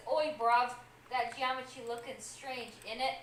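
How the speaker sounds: attempted British accent slipping toward New Jersey; muddled British accent. Co-host reading a chat message in muddled British accent. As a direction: badly imitate a mixed British accent. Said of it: "I know he said he had a mix of accents, but he turned into New Jersey".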